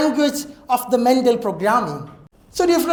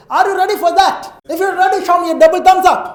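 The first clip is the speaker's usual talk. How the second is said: high, loud crowd hype-up; excited hype; 7 semitones higher, 6 dB louder than usual. Real, not acted. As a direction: pump up the audience. Host hypes up the crowd. (ആവേശത്തോടെ)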